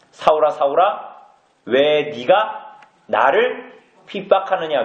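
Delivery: slow, drawn-out calling of the name; a hint of a grave heavenly voice, each word stretched; solemn voice of Jesus. Jesus calling to Paul on the road, slow and solemn.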